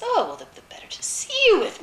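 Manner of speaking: high, quick fake granny; wolf as grandmother. A narrator's reading. Disguised wolf answers Red Riding Hood, fake grandmotherly. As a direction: hurry it out in a put-on falsetto.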